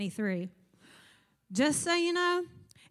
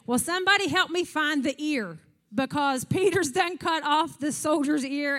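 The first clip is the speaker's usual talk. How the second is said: loud, raised exasperated plea; exasperated Jesus; 4 semitones higher, 5 dB louder than usual. Retold or imitated. Preacher voicing Jesus asking crowd for help, loud and exasperated. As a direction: call out for help finding the ear.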